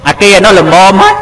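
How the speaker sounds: a hint of a fussing mother; fussy mother. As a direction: play the picky mother tasting the soup. Mother voiced tasting the cooking.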